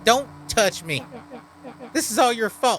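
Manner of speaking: lightly voiced brooding outcast; a hint of a bitter cursed creature; bitter monster voice. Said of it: "that's the voice I gave him".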